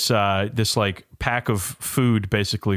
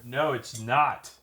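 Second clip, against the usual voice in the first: quiet and slow, away from the mic; turned away from the mic; 7 dB quieter, much slower than usual. Real, not acted. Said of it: "I was not looking at the mic".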